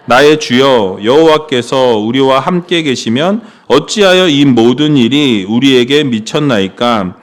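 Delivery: lightly intoned Bible reading; scripture reading. Acted. Pastor reading the verse to the congregation, measured. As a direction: read the verse for the church, measured.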